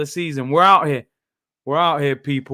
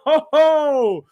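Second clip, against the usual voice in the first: laughing whoop; 8 semitones higher than usual. Real, not acted. Laughing at the skill.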